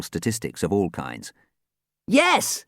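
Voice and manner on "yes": joyful shout. A narrator's reading. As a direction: punch the air and shout. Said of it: "Dan shouted joyfully".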